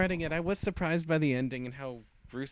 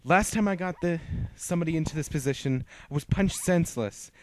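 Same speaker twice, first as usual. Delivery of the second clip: louder and higher, savouring power; loud gloating; 5 semitones higher, 9 dB louder than usual. Acted. Lucy gloating over the trapped hag, loud and higher. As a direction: crow over the helpless enemy.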